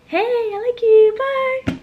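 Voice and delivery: high, slow blurted confession; rushed shy confession. Pretend. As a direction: blurt it out and flee. Imagined quick confession, high.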